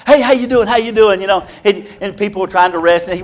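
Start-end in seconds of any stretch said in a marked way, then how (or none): 0.1-1.2 higher eager hey, lightly voiced; hyper greeting. Preacher voicing Tom greeting campers at camp, higher and eager. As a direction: pester everyone cheerfully. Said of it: "He's like".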